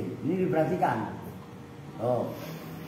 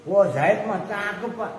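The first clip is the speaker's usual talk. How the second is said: intriguing exclamation; 4 semitones higher than usual. Shown as a demonstration. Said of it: "Itu kan bikin orang penasaran".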